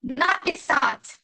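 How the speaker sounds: slow написать, first A drawn out; stress on first A. Shown as a demonstration. Teacher repeating it for learners, slow написать with long NA. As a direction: stretch the NA in написать. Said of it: "primera A".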